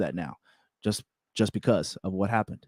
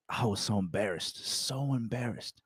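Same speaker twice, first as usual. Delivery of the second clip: much softer, hushed admission; quiet embarrassed; 11 dB quieter than usual. Real, not acted. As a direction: drop the voice in embarrassment. Admitting embarrassment.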